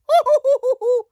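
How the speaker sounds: high, loud hooting laugh; whooping staccato laugh; signature odd laugh. Real, not acted. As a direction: laugh in quick high hoots. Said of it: "That's how I laugh".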